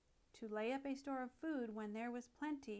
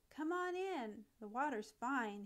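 called out. Acted. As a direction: call out invitingly to friends. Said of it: "he cried".

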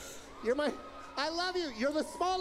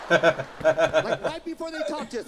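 stoned Korean voice; 7 semitones lower, 9 dB louder, slower than usual. Retold or imitated. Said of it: "sound like they've been smoking weed".

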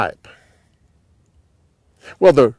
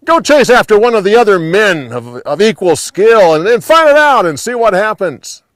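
loud, higher, quick shout; yelled back; 6 semitones higher, 6 dB louder than usual. A narrator's reading. Abner calls back to the young man chasing him, yelling. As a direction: call out urgently to someone behind you. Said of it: "He yelled back to the young man".

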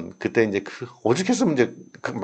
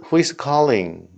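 slow model phrase; much slower than usual. Shown as a demonstration. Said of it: "이런 표현이요".

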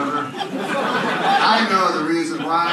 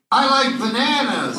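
simple happy friend; 8 semitones higher, 4 dB louder than usual. Retold or imitated. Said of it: "a Down syndrome friend go like".

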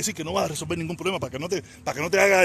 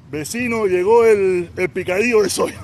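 mock calling out; 6 dB louder, slower than usual. Calling out to a neighbour as a joke.

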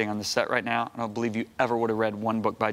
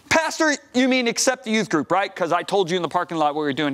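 pleading; 4 semitones higher than usual. Retold or imitated. Retold arguing with senior pastor.

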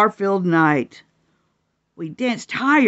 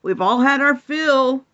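calling out; 5 semitones higher, 3 dB louder, slower than usual. Acted. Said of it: "Donkey called".

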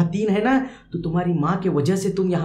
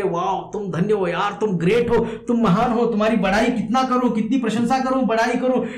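admiring praise; 4 semitones higher than usual. Acted. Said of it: "बच्चे को कह रहे".

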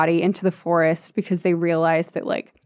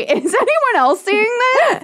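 much higher, incredulous; mock disbelief; 14 semitones higher than usual. Reader reacting to the book, hammed-up disbelief. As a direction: pretend to be scandalised.

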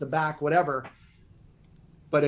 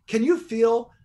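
1 pushy cue. Shown as a demonstration. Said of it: "Listen to my voice".

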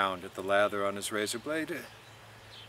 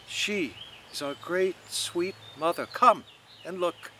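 higher, theatrical invitation; grand Mulligan; 6 semitones higher than usual. A narrator's reading. Mulligan calling Stephen to the parapet, theatrical. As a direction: sweep him over to the view.

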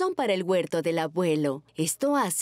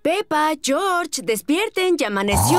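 llamando; 7 semitones higher, 7 dB louder than usual. Acted. Mamá despierta a los niños.

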